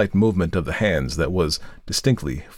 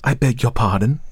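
raised, sharp challenge; 5 semitones higher, 3 dB louder than usual. A narrator's reading. Wife interrupts the lawyer in disbelief, sharply. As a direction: cut him off sharply. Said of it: "The sharpness of her voice".

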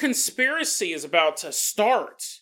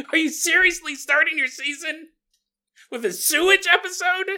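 exasperated foreman; 6 semitones higher than usual. Acted. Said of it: "the foreman's like".

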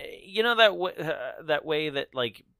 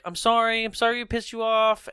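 high-pitched imitation of a pleading girl; mock apology; 8 semitones higher than usual. Host voicing Rachel apologising to the trucker, mock pleading. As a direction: plead sorry in a raised voice.

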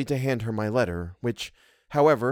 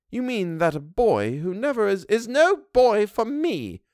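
high, slow housekeeper; a servant fond of spirited boys; Missus Gross voice; 9 semitones higher, slower than usual. A narrator's reading. Housekeeper tells governess her taste, bold.

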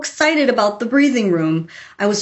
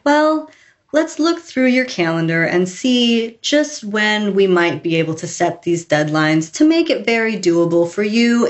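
soothing agent voice. Retold or imitated. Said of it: "same soothing, wonderful tone of voice".

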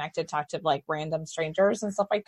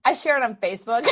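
laughing. Real, not acted. Admits sharing, then laughs.

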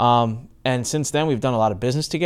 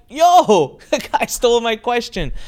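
laughing mock outrage; 9 semitones higher, 5 dB louder, slower than usual. Laughing outrage at stolen question.

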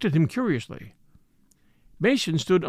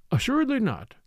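amiable; 8 semitones higher than usual. A narrator's reading. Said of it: "with a great deal of amiability".

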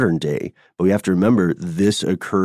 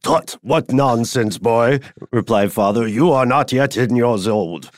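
stern father; 4 semitones higher than usual. Acted. Father scolds son at dinner.

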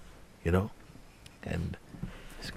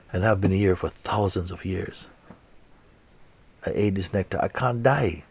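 lightly voiced weary raven; 3 semitones higher, 4 dB louder than usual. The old raven begs the seeker not to eat it, lightly voiced. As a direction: plead as a tired ancient bird.

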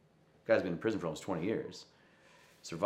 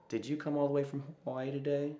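clerk's voice; 8 semitones higher than usual. Retold or imitated. Voicing the prison clerk.

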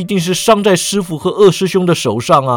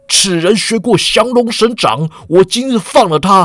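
higher, rising harsh rebuke that swells to the end; stern and harsh; 4 semitones higher than usual. Acted. Godfather rebuking his goddaughter for betrayal, harsh and stern. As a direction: scold her sternly, building toward outrage. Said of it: "声色俱厉".

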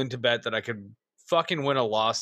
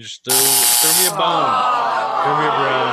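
laughing; 7 dB louder than usual. Real, not acted. Laughing accusation.

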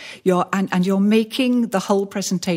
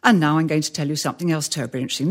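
exaggerated fast; 3 semitones lower, much faster than usual. Shown as a demonstration. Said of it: "I'm exaggerating slightly for effect".

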